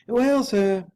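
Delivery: high, loud, strained butler; a harsh, cracking servant voice, loud and high; harsh, broken voice. A narrator's reading. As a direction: force the words out, harsh and broken. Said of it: "his voice harsh and broken".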